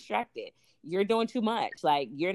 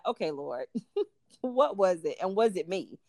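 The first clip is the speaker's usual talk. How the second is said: humble surrender. Retold or imitated. Submitting to the Lord in prayer, lightly humble and sincere. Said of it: "submit yourself to the Lord and say".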